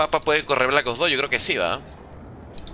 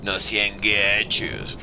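lower, very slow whining plea; drawn-out pleading; 8 semitones lower, much slower than usual. Pretend. Begging the viewers for more likes, slow and whiny. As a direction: stretch it out like a begging kid.

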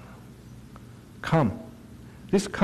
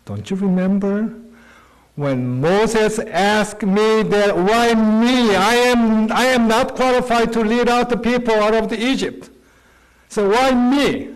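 voicing God; 4 semitones higher than usual. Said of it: "Then he said".

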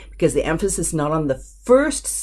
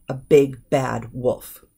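flowing order demo; 4 semitones lower, slower than usual. Shown as a demonstration. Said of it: "And it sounds better".

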